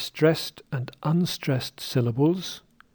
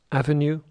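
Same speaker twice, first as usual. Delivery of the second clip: avenue said as AVenue, stress on the first syllable; correct stress. Shown as a demonstration. Teacher models correct avenue, stress on AV. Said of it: "But listen again".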